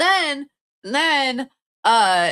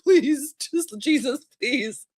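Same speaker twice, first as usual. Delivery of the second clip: mock pleading; 3 semitones higher, slower than usual. Quoting herself in pain at dentist.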